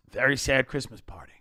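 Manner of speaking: soft unvoiced hush; whisper. Real, not acted. Remembering the gloomy office Christmas party, whispered. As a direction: breathe it out as a sad aside.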